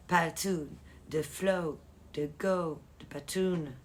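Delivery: slight English accent on the names; accent anglais. Real, not acted. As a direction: say the nicknames with an English lilt. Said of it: "prendre un accent anglais quand je dis Patoun". (léger accent anglais)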